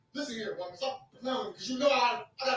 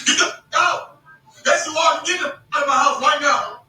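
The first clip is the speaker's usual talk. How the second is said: angry shout; 5 dB louder, slower than usual. Retold or imitated. Throwing her out of house.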